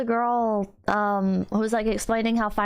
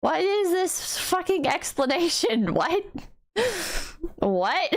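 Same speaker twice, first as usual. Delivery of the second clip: incredulous; 6 semitones higher, slower than usual. Retold or imitated. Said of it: "I was just sitting here like".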